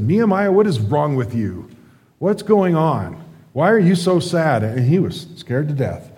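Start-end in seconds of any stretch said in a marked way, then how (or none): 0.0-4.6 confronting king. Retold or imitated. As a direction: call out his name sharply, then press him. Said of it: "the king confronted him and said".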